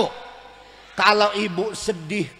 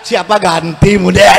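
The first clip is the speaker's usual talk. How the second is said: widower's mock lament; 12 dB louder than usual.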